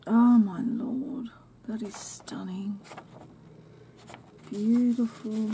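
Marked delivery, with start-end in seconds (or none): 1.7-2.8 breathless hushed whisper; soft gasp of delight; awed whisper. Real, not acted. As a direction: whisper it in awe. Awed unboxing of gifts.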